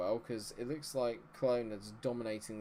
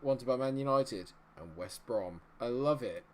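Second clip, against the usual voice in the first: ordinary talk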